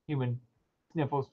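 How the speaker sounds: ordinary delivery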